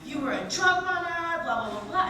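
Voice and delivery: loud, thrilled roommate news; excited roommate. Retold or imitated. Roommate reading the script, loud excited gush. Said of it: "she goes".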